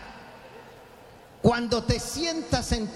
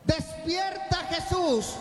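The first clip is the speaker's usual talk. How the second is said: shouting to wake Jesus; 4 semitones higher than usual. Shown as a demonstration. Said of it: "Grítale".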